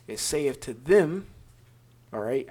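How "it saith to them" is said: "them" drawn out with weight; slow down and land hard on "them"; stress on "them". Real, not acted. Teacher reading scripture to his listeners, stressing "them". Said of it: "I'm gonna emphasize certain words".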